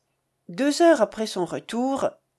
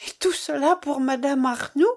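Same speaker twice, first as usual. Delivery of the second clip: higher, lightly acted tearful outcry; tearful cry; 5 semitones higher than usual. A narrator's reading. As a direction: cry out in hurt, mildly acted. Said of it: "s'écria Rosanette en pleurant". (exclamation éplorée, jouée avec retenue)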